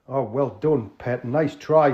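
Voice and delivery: drawn-out Geordie host; Geordie accent. Acted. Tony checking the crooks have tea, Geordie. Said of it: "an authentic, uh, Northerner".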